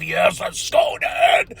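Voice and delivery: strained, high cheering squeal; hyped fan yell. Retold or imitated. Host reliving Takeshita facing off with MJF, hyped squeal. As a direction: let the cheer shoot up high. Reliving excitement at a possible match.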